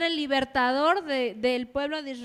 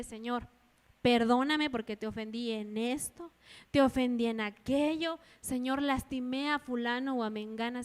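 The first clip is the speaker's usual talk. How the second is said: sincere specific confession. Shown as a demonstration. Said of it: "deberíamos de orar de esa manera".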